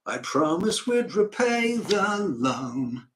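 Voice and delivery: put-on slow, heartfelt pleading in a northern accent; John Northbrook. Northerner promises banker he'll repay, slow heartfelt northern accent. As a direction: make a slow, earnest appeal in a northern accent. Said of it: "an honest northerner who presents his argument".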